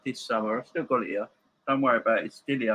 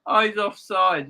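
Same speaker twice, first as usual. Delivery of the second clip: excited; 10 semitones higher, 4 dB louder than usual. Real, not acted. Deflation after goal call.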